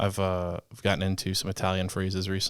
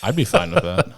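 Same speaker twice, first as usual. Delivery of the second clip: high excited; 9 semitones higher, 8 dB louder than usual. Real, not acted. High loud retort.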